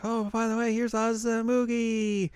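high, drawn-out cartoon girl voice; roztrzepana wokalistka. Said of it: "And then he's like".

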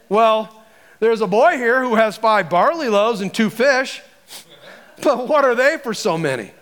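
lightly sarcastic doubt. Acted. Andrew reporting a boy's small lunch to Jesus, mild sarcasm. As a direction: lay a touch of sarcasm on each phrase. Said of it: "I can hear the sarcasm in his voice".

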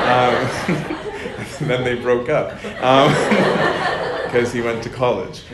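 talking through real laughter; giggling through the words; laughing. Real, not acted. Telling the audience about the breakup, laughing.

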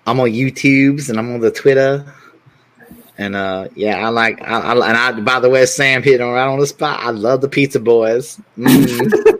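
hammed-up sexy bass voice. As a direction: put on a campy seductive voice. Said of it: "I don't know what that voice is".

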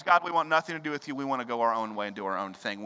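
fast, brushing God off; the world rejecting God, quick and dismissive; dismissive rebel voice. Acted. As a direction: say it like a careless rebel. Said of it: "the world says".

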